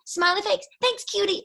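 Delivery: high, loud mocking read of a teenage text; high, loud mock of a guy texting like a teen; mock teen texter. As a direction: squeal it like a giddy teenager. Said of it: "every text is".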